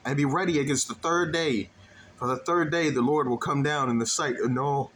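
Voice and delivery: reading through a yawn; words stretched by a yawn. Real, not acted. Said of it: "Back to yawning".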